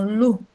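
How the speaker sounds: "lu" sounded out on its own; last syllable isolated. Shown as a demonstration. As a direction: sound out "lu" as the final syllable of cavalo. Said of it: "ó aí o último som". ("lu" isolado, com som de U)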